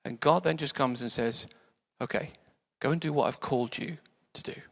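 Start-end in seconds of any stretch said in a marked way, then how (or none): 2.0-4.6 softly spoken, unruffled instruction; calm, quiet. Retold or imitated. God answering moaning Elijah, calmly and quietly. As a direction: say it softly and simply.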